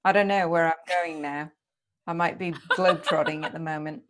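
careful, slightly quiet Australian accent; attempted Australian accent. Shown as a demonstration. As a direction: improvise in Australian, amused at yourself. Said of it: "It's actually pretty good".

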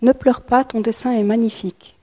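measured reading with a lifted Ne; literary reading. A narrator's reading. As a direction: read it out as the fragment's opening refrain. Opening line of the read fragment.

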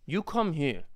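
slow, soft mock Godfather voice; low, quiet, drawn-out mob-boss impression; bad Marlon Brando. Grandson playing the Godfather to his grandma, hammy impression. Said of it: "doing such a bad Marlon Brando impression".

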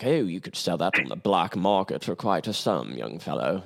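put-on faint British accent, amused; light British accent. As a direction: lightly imitate a polite British official. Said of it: "This British dude with his British accent".

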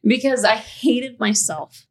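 laughing into heated anger; angry venting after a laugh; passionate anger. Real, not acted. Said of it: "You're so cute when you get passionate".

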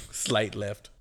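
"slight left" slow, as two separate words; slight left, corrected. Shown as a demonstration. Practising the tricky lyric, "slight left" slow and separated. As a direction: say "slight left" carefully, keeping the words apart. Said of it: "I got it right".

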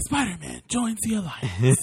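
loud, slow game announcer. Pretend. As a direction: boom it like a title card. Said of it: "as it flashes across the screen".

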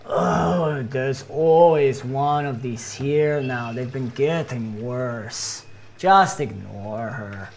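lightly voiced, slow grumbling aside; a touch of weary dismissal, drawn out; Olmsted. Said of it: "Olmsted, he kinda like".

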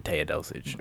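Teodosic said with first syllable "tay"; Tay-uh pronunciation. Retold or imitated. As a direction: say Teodosic as TAY-uh-DOH-sitch. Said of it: "I heard somebody pronounce it".

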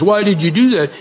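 a hint of a croak, asking with a last breath; mildly acted dying frog's question. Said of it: "in his croaking, dying voice".

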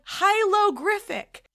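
"Hieroglyphic" with L for the first R; mispronounced word. Retold or imitated. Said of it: "There's no L in hieroglyph".

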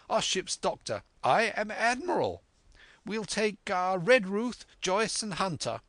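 squire carried away planning the voyage; excited squire. A narrator's reading.

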